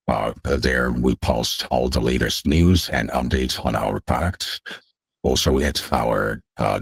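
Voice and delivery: digitally altered voice; voice changer. Real, not acted. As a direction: speak through a voice changer. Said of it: "someone come on with a voice changer like this".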